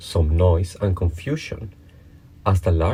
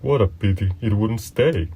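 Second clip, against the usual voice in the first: sighing; 3 semitones higher than usual. A narrator's reading. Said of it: "sighed the lorry".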